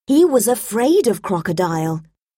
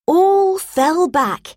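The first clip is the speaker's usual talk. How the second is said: drawn-out rising exclamation; 8 semitones higher, slower than usual. A narrator's reading. Everyone falls into mud.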